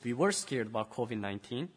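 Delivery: earnest spoken prayer to God. Acted. Pastor praying with the children, earnest and humble.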